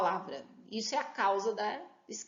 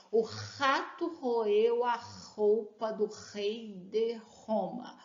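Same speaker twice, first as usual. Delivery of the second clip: slow alliteration demo; slower than usual. Shown as a demonstration. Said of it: "Qual é o sonzinho que se repete?".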